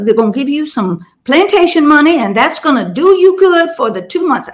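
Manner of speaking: put-on Southern accent. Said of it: "that's my deep, deep Southern accent".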